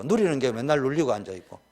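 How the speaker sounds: usual speaking voice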